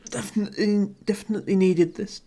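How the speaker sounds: strained voice mid-stretch; talking while stretching. Real, not acted. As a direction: talk through a stretch. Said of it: "trying to talk while stretching".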